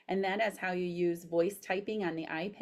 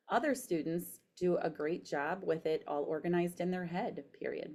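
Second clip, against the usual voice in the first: careful dictation, spoken punctuation; dictating; 2 semitones lower than usual. Shown as a demonstration. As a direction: read it clearly to voice typing. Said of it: "So I'm pushing the microphone".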